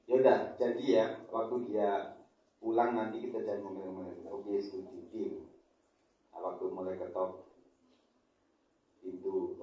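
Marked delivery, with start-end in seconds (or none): none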